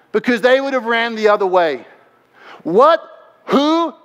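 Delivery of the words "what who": high-pitched, incredulous questions; startled. Acted. Followers who would have run the other way, startled.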